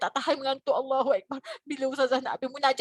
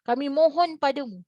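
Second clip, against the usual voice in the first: heartfelt prayer; 4 semitones higher than usual. Acted. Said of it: "Maka kita minta pada Allah".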